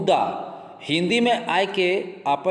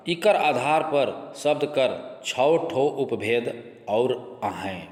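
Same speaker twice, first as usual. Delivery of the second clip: slow and clear; slower than usual. Shown as a demonstration. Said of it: "आराम से धीरे धीरे बोल रहे हो".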